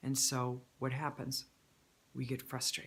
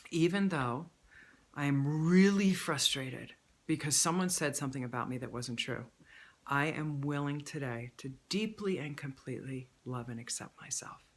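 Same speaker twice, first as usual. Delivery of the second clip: 1 setup statement demo. Shown as a demonstration. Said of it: "As you say".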